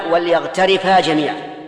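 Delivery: loud, slow "وليغترفا" as wal-yaghtarifa; vowelless lam. Shown as a demonstration. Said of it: "لأن اللام لام".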